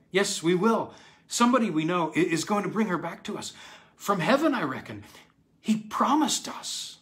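put-on high, loud little-girl protest; insistent child. A narrator's reading. Dorothy insists to her father that Mommy returns, excited. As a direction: insist eagerly, pitched well up.

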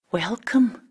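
high-pitched, bashful greeting; shy. A narrator's reading. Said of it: "blushing with shyness".

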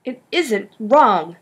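slow, firm denial; said stoutly. Acted. Griffin defending the plan to Ben, slow and firm. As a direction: plant your feet and insist. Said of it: "Griffin said stoutly".

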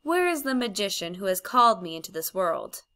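a lightly voiced imperious witch queen; commanding queen. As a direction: let it make the room quiver. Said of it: "something in her voice that made the whole room quiver".

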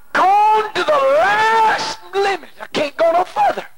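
slow, tearful, voice breaking on each word; crying. Real, not acted. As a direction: let the tears come as you drag it out. Breaking down recounting despair.

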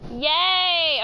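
high, loud yay; excited cheer. Real, not acted. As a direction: cheer the little win. Bot finally working.

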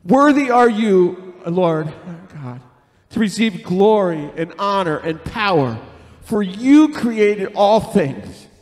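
leading a group reading of scripture; reading aloud together. Acted. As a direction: read it out with the church. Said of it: "read this with me".

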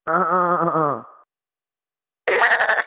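half-hearted goose honk try; hesitant honk imitation; goose noise attempt. Shown as a demonstration. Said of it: "let me just try to make a noise".

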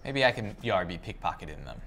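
lightly voiced pirate talk; a hint of an old sea dog. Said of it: "I not be liking the non-pirate voice".

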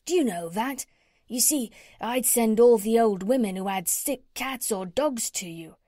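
lightly voiced chatty tradesman; cat's meat man. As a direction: lightly play an eager cat's meat man pitching his idea.

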